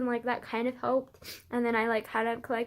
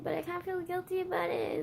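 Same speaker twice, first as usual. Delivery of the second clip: higher, small guilty voice; meek reply; 6 semitones higher, 5 dB quieter than usual. Retold or imitated. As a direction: say it sheepishly. Quoting own meek reply.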